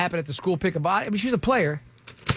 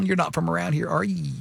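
put-on Tennessee accent. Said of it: "that's what I used to get".

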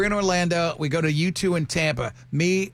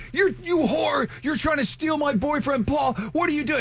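high-pitched mock yelling; imitated screaming accusation; 10 semitones higher than usual. Imitating drunk girlfriend accusing her friend of stealing him, mock screaming. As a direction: imitate a drunk girlfriend shrieking, little extra volume. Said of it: "she's screaming and yelling".

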